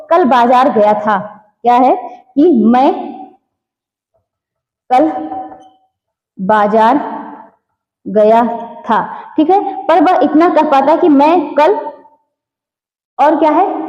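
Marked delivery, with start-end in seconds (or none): 0.1-9.0 halting, broken-up words with long gaps; stuttering demo. Shown as a demonstration. Teacher demonstrating a stammering child's halting speech. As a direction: act out a child who stutters, stalling between words. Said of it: "जैसे कि बालक क्या कहना चाहता है".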